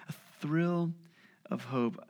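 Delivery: "thrill" stretched and lifted, "hope" dropped soft; slow emphasis. Shown as a demonstration. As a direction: linger on "thrill" then let "hope" fall quietly.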